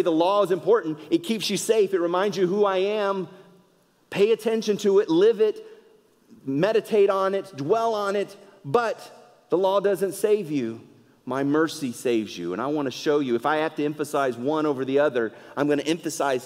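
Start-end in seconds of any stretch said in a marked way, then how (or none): 0.0-11.9 a lightly voiced God, higher and earnest; God speaking. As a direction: voice God urging his people, a touch higher. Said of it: "he's gonna say".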